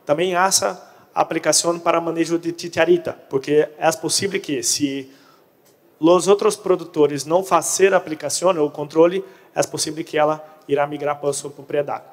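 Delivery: Portuguese speaker attempting Spanish; Portuguese mixed with Spanish words; portunhol. Real, not acted. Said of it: "hablo portunhol".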